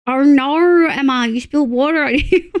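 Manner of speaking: hammed-up Australian line reading; exaggerated Australian accent. Streamer parodying the spilled-water line, exaggerated Australian accent. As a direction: overdo the Australian vowels in mock dismay. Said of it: "he is the Australian accent".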